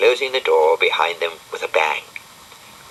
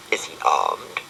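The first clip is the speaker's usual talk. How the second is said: nervous whisper; 4 semitones lower, 5 dB quieter than usual. Acted. Nervous about prowler.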